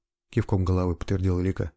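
ordinary delivery

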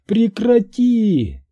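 high, slow anguished cry; desperate cry. A narrator's reading. Florence crying out at Daniel, high anguished. Florence begs him to stop.

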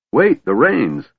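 high, urgent exclamation; alarmed cry. A narrator's reading. Dwarf grasps at slipping reins, crying out in alarm. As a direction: cry out as control slips away. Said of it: "Flint cried".

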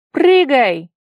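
urgent high, loud yell; shouted command. A narrator's reading. Tigir urges his friend to jump, high shout. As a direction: cry out the order at full voice. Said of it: "крикнул Тигир".

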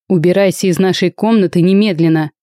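usual speaking voice

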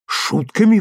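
put-on young man repeating the father's accusation, indignant; indignant exclamation. A narrator's reading. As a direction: throw the word back at him. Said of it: "воскликнул я".

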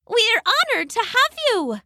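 a tiny glowing fairy, delighted. Acted. A fairy welcomes Loosemore to the party, high and sweet. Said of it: "one of the fairies replied".

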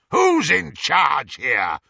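loud, slow, commanding roar. A narrator's reading. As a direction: bellow to reassert command over the gang. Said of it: "roared Greyback".

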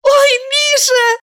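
high slow joyful cry; delighted woman. A narrator's reading. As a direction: burst out happily, high. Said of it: "обрадовалась Валерия".

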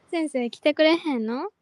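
light Kansai plea, 来てくれへんの rising; Kansai dialect. Shown as a demonstration. Teasing the teacher in Kansai dialect, pleading. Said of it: "京都弁と関西弁でいじめまくる".

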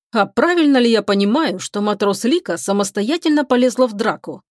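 ordinary delivery, nothing marked

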